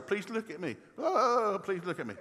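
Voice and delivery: high-pitched mock attention seeker; hammed-up childish plea; whining five-year-old. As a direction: imitate a needy little kid wailing for attention. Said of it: "little five-year-old thumb sucker".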